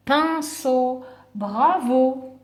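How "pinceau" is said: "pinceau" stretched as pin, ceau; carefully separated "pinceau", revealing the answer; syllable by syllable. Shown as a demonstration. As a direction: draw out both syllables of "pinceau". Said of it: "il y a la syllabe".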